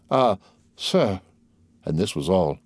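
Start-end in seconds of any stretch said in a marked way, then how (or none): none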